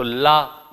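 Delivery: ला with open aa. Shown as a demonstration. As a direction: say ला with mouth wide. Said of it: "ला से क्या हो जाएगा". (खुला ला)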